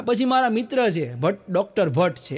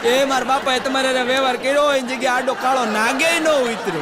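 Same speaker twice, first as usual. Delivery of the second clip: louder, higher hammed-up wife complaining; mock wife's rant; 4 semitones higher, 4 dB louder than usual. Wife complaining to husband about her father, hammed-up rant.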